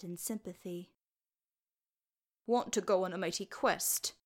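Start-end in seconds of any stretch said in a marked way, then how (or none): 2.5-4.1 lightly voiced sulky boy; understated boyish rebellion; rebellious mumble. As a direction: grumble it like a defiant child. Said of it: "the boy mumbled rebelliously".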